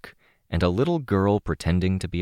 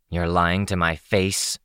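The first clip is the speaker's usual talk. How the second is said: growled. Acted. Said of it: "Rachel growled".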